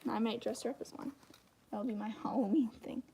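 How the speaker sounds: soft murmured aside; under-the-breath whisper. Real, not acted. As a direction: whisper it to yourself while drawing. Muttering to herself while drawing.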